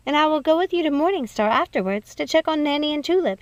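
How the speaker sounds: a hint of a sweet young cousin pleading; Snow reassuring. Snow offers to come.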